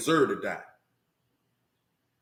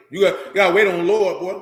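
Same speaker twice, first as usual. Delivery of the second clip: preaching emphasis; 6 dB louder than usual. Real, not acted. Preacher urging waiting on God.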